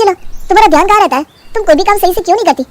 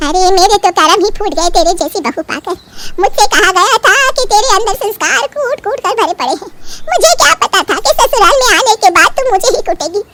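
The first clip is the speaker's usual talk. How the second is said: 1 scolding mother-in-law; 3 semitones higher than usual. Acted.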